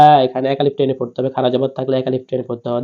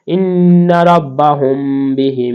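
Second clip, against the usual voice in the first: slow, raised Quranic chant; slow recitation; much slower than usual. Shown as a demonstration. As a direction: lift the verse and draw every vowel out. Reciting the verse.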